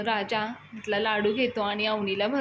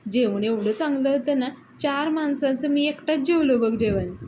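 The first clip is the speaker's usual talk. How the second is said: louder, raised-pitch excuse; retold self-justifying explanation; 4 semitones higher, 5 dB louder than usual. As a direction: make an emphatic acted excuse. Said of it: "Datta explanation देत असतो".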